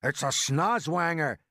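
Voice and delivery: loud, stretched-out exclamation; alarmed cry. A narrator's reading. Police chief identifying the monster, crying out. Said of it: "cried the chief of police".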